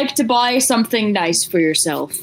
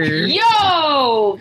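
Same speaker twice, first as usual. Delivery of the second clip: Dalek voice. Real, not acted. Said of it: "That's what a Dalek sounds like".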